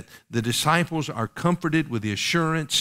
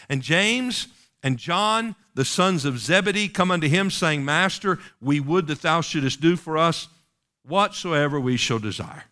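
higher-pitched formal pulpit reading; scripture reading; 3 semitones higher than usual. Acted. Preacher reading verse thirty-five to the congregation, scripture reading. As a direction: read the verse out, names held long.

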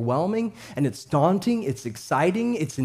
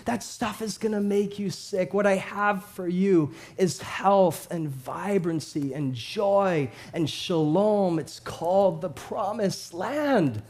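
softer and slower reassurance; tender fatherly promise; 4 dB quieter, slower than usual. Acted. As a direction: gently offer something better. Father's promise voiced softly.

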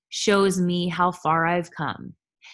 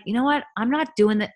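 mock mad; 6 semitones higher, faster than usual. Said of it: "And I get mad at it".

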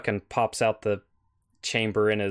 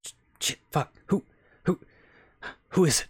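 startled; 6 semitones higher, faster than usual. Acted. Startled by knock at door.

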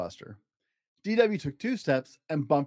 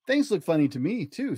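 put-on higher, girlish voice; little sister voice; 3 semitones higher than usual. Little sister insisting to brother, girlish voice. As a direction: sound like a small eager girl.

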